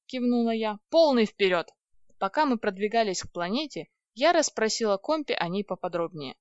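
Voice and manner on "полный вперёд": eager. A narrator's reading. Eager command to go.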